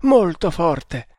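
feverish rambling with sudden surges of emphasis; mildly raving, proud hunter; delirious hunter. Acted. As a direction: boast through the fever, dwelling on key words. Delirious boast of wounded hero.

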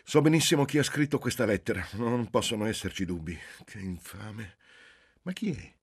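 high, loud, outraged exclamation; loud and indignant. Acted. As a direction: explode in indignation at the letter. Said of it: "esclamò con voce alta e indignata". (ragazza indignata che esclama ad alta voce)

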